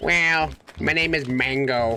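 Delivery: odd, weird villager voice, very slow, drawn out. Recalling voicing game characters in real time: put-on villager voice. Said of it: "I got the villager ones".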